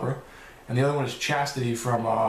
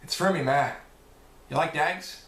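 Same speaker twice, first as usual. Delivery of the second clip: imitating a pikey accent from Snatch; 3 semitones higher than usual. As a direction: put on a rough attempt at a pikey accent. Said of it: "like a pikey".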